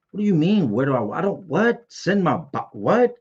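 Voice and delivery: stunned disbelief. Retold or imitated. Inmate reliving the intake form asking where his body goes, stunned disbelief. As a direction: pitch jumps high on each baffled what.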